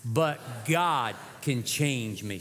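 slow and deliberate creed; slow recitation. Shown as a demonstration. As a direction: say it slowly for the crowd to follow. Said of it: "say it one more time".

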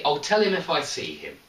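I'll tell him if I see him as one unbroken phrase; no pause, all in one breath; run together fast. Shown as a demonstration. Teacher shows students the sentence without a pause, run together. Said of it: "We say it very, very fast together".

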